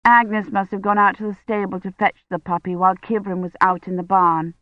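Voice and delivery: plain reading voice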